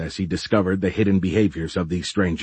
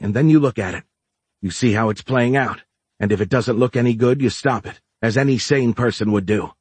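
raised, indignant rebuke; heated scolding; 3 semitones higher than usual. Acted. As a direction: push back hard, fed up. Dora scolds Giles heatedly.

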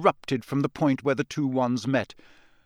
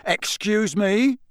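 incredulous; 8 semitones higher, 3 dB louder, slower than usual. Acted. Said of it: "said Mister Diggory incredulously".

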